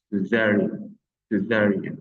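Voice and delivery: "césarienne" with light English-style opening S; don't harden the first C of "césarienne"; soft C. Shown as a demonstration. Teacher repeating for French learners, "césarienne" with a soft C. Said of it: "Ce n'est pas un C dur".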